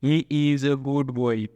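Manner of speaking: very slow, each word spaced out; careful classroom dictation; slow model reading. Shown as a demonstration. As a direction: read He is a good boy. slowly for the class. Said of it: "જેમ કે".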